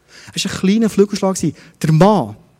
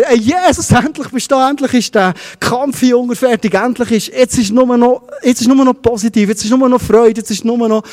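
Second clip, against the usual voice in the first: retold joyful calling out, pitch raised; freudiges Rufen; 5 semitones higher than usual. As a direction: call out in eager relief, as retelling a dream. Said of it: "Ich habe gerufen". (freudig nacherzähltes Rufen, mit höherer Stimme)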